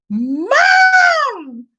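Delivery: high, loud call of Mom. Retold or imitated. Daughter yelling for her mom in dismay, loud and high. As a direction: daughter shouting for mom from the new apartment.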